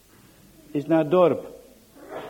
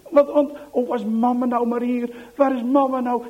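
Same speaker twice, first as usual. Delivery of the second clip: desperate; 4 semitones higher, 4 dB louder than usual. Acted. Piet desperate for mother.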